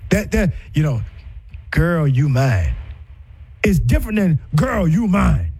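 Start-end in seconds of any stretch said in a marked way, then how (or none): 1.7-2.7 put-on low and slow, "Girl" falling; possessive claim. Shown as a demonstration. Demo of a controlling man, slow and low. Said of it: "You, you see the difference?". 4.6-5.5 put-on light, "Girl" falling; easy loving "Girl, you mine"; affectionate claim. Shown as a demonstration. Demo of a caring man, light and easy. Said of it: "You, you see the difference?".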